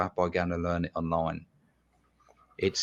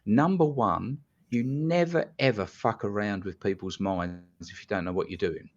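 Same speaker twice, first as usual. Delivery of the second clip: retold fuming. Hypnotist warning untrained caller off people's minds, retold scolding. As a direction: lay down the law, retold anger. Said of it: "I was absolutely fuming".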